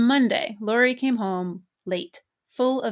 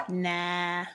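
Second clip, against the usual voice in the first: scornful; 5 dB quieter than usual. Acted. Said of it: "Laurie said scornfully".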